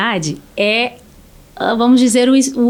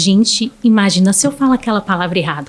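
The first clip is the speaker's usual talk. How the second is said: anxious inner voice; 5 semitones lower than usual. Retold or imitated. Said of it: "Aí ficava".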